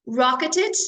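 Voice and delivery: "Rocketed" in three syllables, ED voiced separately; extra ED syllable. Shown as a demonstration. Teacher shows students the pronunciation rule, "Rocketed" with ED as extra syllable. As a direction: give the ED in "Rocketed" a syllable of its own. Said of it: "you pronounce E D as an extra syllable".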